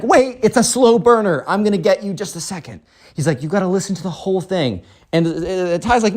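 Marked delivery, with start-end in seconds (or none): 0.0-4.8 a hint of a higher kid voice; pleading spoiled kid. Spoiled kid asks her to keep listening, pleading high. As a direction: plead in a raised, insistent kid voice.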